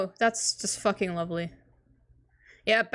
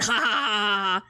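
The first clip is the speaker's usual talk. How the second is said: slow, deliberate acted laugh; mock laughter; slower than usual. Character mocking John's prank attempt, mock laughter. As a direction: draw out a put-on ha-ha.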